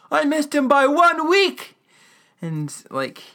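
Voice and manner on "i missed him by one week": slow, high-pitched anguished yell; overdone retold yell. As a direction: cry it out loud in exaggerated dismay. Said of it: "he doesn't yell like I did".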